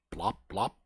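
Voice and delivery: softly imitated plop; muffled plop. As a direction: mimic a dull little plop. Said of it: "kind of a muffled sound".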